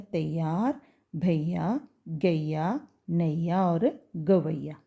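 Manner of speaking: तैयार, भैया, गवैया with a gliding "a-i"; a-i glide. Shown as a demonstration. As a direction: read the list slowly, gliding a to i in भैया. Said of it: "उसको हम कैसे पढ़ेंगे". (तैयार, भैया को "तइयार, भइया" जैसा बोलें)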